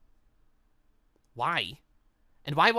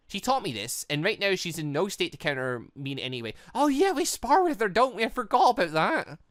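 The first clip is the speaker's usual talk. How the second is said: ordinary delivery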